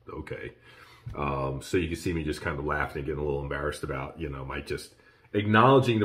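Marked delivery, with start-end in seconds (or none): 0.1-0.5 very soft, low-key "okay"; imitating a quiet, lost okay; retold lost reaction. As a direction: drop to a small, uncomprehending murmur. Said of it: "I'm like".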